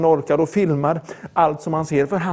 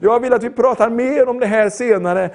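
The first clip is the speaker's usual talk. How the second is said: mildly raised imitated call; retold loud reply; 5 semitones higher than usual. Gym friend answers about the parable, mock calling out. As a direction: imitate a friend calling back, not a full shout. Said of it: "så ropar han bara högt".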